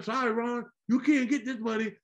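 dad telling coach Ron the money is off; apologetic dad. Retold or imitated. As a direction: turn the coach down gently. Father voiced in the story.

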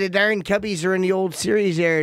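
a hint of a Chicago accent; lightly voiced Chicago sports fan. Comic doing his Chicago accent for the hosts, lightly put on. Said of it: "I do my Chicago accent thing".

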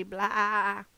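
drawn-out goat-like blah; sharp, throaty bleat. A narrator's reading. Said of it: "Grover let out a sharp, throaty".

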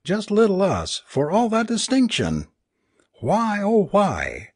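high-pitched, distraught tirade; raving. A narrator's reading. Alice protests being picked for a cosmic joke, raving. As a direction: wail in outrage at the injustice. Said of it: "Alice raved".

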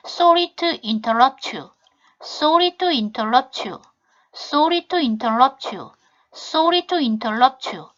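slow, even drill of the phrase; slow practice repetition. Shown as a demonstration. Teacher drilling the class, slow and steady. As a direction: repeat it slowly for students. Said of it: "연습해 보도록 할게요".

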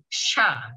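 SHA said as one joined syllable; "sha" as one blended sound; merged syllable. Shown as a demonstration. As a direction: run shi and ya together into a single "sha". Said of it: "rangkap gitu".

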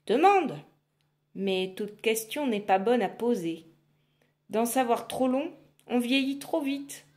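ominous witch. Acted. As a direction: warn her darkly. Witch warns.

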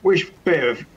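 loud, furious bark at the crew; angry shout. Acted. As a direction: yell it like a pirate captain. Character shouting an order.

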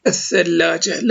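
slow "Es-sellace" with a doubled lisped th sound; silent lam, doubled se. Shown as a demonstration. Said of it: "şeddeli olarak çift okunuyor".

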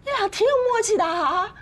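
ordinary delivery

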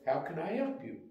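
soft, kind reply; God's gentle voice answering in the dark. A narrator's reading. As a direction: answer the frightened man gently. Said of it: "A gentle-sounding voice said".

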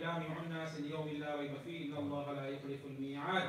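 rapid Arabic dua flowing into pleading English prayer; supplication prayer. Acted. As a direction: lead the congregation in heartfelt dua.

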